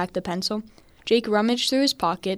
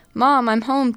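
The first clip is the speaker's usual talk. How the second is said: calling "Mom, I'm home" louder and higher; yelled greeting; 4 semitones higher, 6 dB louder, slower than usual. Acted. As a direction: shout it through the house. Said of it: "Jake yelled".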